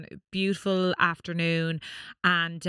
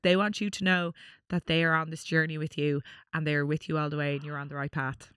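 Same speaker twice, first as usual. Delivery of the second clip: solemn message; 2 semitones lower than usual. Retold or imitated. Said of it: "he was like".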